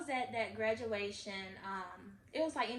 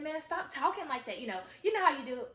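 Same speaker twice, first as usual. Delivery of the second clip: mildly angry protest, higher pitched; retold anger; 4 semitones higher, 5 dB louder than usual. Daughter objecting to mom's talk of dying, mildly angry. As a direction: retell an angry objection with some push. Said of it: "I got so angry".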